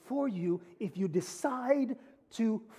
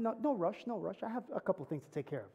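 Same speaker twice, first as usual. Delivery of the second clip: dismissive shrug; 7 dB quieter than usual. Retold or imitated. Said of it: "And she says".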